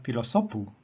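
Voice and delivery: "pilosopu" stressed on SO; stress on second-last syllable. Shown as a demonstration. Teacher showing penult accent, "pilosopu" stressed on SO. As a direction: hit the SO in "pilosopu". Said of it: "the accent is upon the second last syllable".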